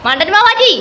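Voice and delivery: teasing jeer. Real, not acted. Teasing friend over plates.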